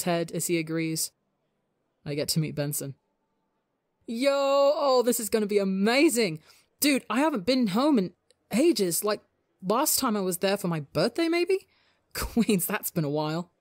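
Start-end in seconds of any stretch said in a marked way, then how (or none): 2.0-3.0 slow fond smile. Acted. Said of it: "he smiles slow". 4.1-13.5 high, bubbly excited rambling; happy chatter. Acted. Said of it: "Tubbo chatters happily".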